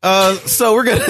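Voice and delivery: hammed-up British accent, pitched high; mock British accent. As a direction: put on a silly British accent to tease. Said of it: "you went from British to Australian".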